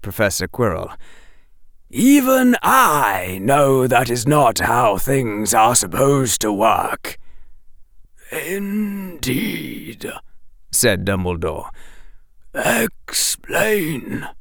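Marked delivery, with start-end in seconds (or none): 1.9-7.2 slow, measured, deliberate teacher; lightly voiced cool professor; Professor Quirrell. 8.3-10.1 put-on soft, higher old wizard; lightly voiced old headmaster; Dumbledore. 12.5-14.3 put-on breathy whisper of an old wizard; whispering headmaster; whispered command. Dumbledore voiced in audiobook.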